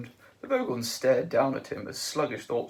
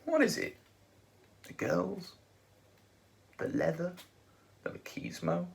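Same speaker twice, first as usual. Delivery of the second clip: slowly; 6 semitones higher than usual. A narrator's reading. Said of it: "he said slowly".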